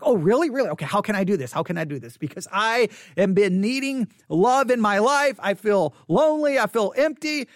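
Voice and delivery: mock eager, pleading listener. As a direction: play the lonely buyer begging to know. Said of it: "are you like".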